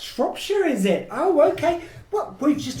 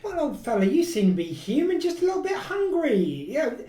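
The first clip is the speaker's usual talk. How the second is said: cheery raised patter; jolly probing banter; Doctor; 4 semitones higher than usual. Acted. Doctor teasing the vinegar-smelling stranger, cheerful and raised.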